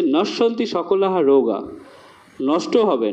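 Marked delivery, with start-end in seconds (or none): 0.0-1.6 slow verse recitation. Shown as a demonstration. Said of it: "বলছে".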